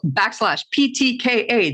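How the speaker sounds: "backslash P T K A" in an American accent. Shown as a demonstration. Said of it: "in not a Kiwi accent".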